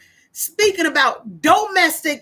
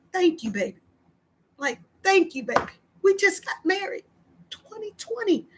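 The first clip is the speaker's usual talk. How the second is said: thankful to husband; 3 semitones higher, 7 dB quieter than usual. Retold or imitated. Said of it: "all I keep telling my husband".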